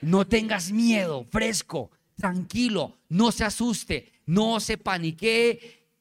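slow, drawn-out, emphatic calming commands; steady him with stretched, insistent phrases; firm reassurance. Acted. Elisha telling the servant not to panic, firmly reassuring.

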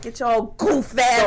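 "goof ass" drawn out slowly with force; aggressive stress. Retold or imitated. Imitating the passenger's slang, aggressive stress on "goof ass". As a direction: lean hard and long on "goof ass". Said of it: "aggressive on certain words".

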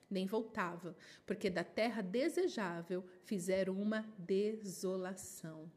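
measured, solemn Bible reading; scripture reading. Acted. Preacher reading scripture to the congregation, solemn. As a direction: read the prophet's words with weight. Reads Zechariah scripture aloud.

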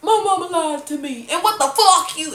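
high, loud, hammed-up snarl; evil mock yell. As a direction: shout it ugly and scrunched-up. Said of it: "I said just like this".

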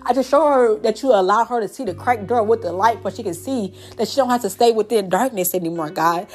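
earnest spoken prayer with a Lord or God after each plea; fervent closing prayer for the women listening; heartfelt prayer. Acted. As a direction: pray over the listener, pleading and grateful.

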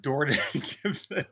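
Jordan said with a D, like "Dordan", breaking into laughter; mispronounced name. Retold or imitated. Teasing the actress about her flubbed name, Jordan said as "Dordan". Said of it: "did that sound like".

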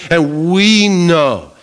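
"And we know" drawn out, weight on "we"; slow, with "we" leaned on in "And we know"; slow stress. Shown as a demonstration. Preacher rereads the verse, slow with "we" stressed. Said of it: "what do we know?".

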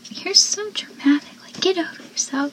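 snarky retort; mocking. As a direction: brush him off. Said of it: "where they go".

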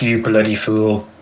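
slow, low horror duck; creepy duck voice. Retold or imitated. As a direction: drawl it out like a lurking monster. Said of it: "there's a duck".

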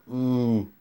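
low satisfied hum after a drink; yum. Real, not acted. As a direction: savour the sip with a quiet hum. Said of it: "That was, mm, delicious".

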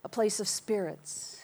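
a dismissive skeptic, half-whispered; mocking quote. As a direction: brush it off like a doubter. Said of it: "I have heard people say".

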